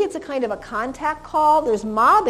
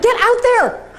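sharp high shout, much louder; yelling out; 12 semitones higher, 8 dB louder, slower than usual. Retold or imitated. Friend urging her onto the field with a shout. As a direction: bark the order at a dreamer.

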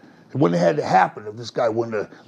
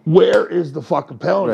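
real anger; 2 semitones higher, 5 dB louder than usual. Real, not acted. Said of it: "I'm getting mad right now".

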